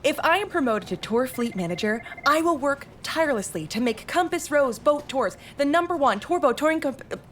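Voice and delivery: nervous stumbling speech; tripping over words. Real, not acted. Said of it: "I'm tripping over my words so much".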